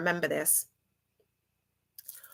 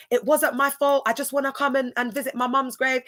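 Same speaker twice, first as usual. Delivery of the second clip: higher-pitched mock protest, no real yell; mock screaming; 4 semitones higher than usual. Retelling a man's protest at the gates, mock screaming. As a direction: act out his pleading outburst, lightly. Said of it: "He was screaming at the top of his voice".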